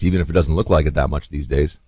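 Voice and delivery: usual speaking voice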